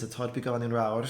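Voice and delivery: reads the line through a laugh; laughing quote. Retold or imitated. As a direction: quote it while chuckling. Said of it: "this is a nice sentence".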